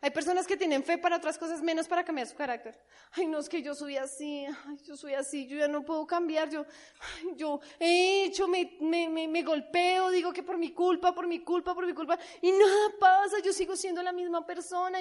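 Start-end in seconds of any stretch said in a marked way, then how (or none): 3.1-15.0 whiny self-pity. Retold or imitated. Mocking self-pitying believer.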